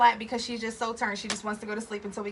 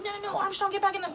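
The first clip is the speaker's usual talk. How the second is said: pleading friend; 10 semitones higher, faster than usual. Retold or imitated. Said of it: "She's like".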